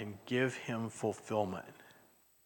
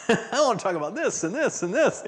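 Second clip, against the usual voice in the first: eager God; 8 semitones higher, 5 dB louder than usual. Retold or imitated. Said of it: "you know".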